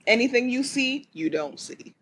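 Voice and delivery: smooth radio host delivery. Real, not acted. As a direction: say it like a late-night radio DJ. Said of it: "I sounded like a radio person".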